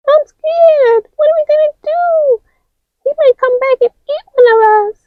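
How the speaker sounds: high, fast frightened voice; high quick fearful chatter; scared character. Acted. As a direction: worry aloud, rushing. High figure afraid.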